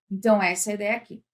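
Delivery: ordinary delivery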